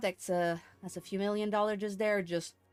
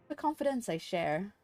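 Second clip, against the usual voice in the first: formal briefing read aloud; 3 dB quieter than usual. Acted. Streamer reads a mission briefing to the player, formal storytelling. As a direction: deliver a formal quest briefing, subdued.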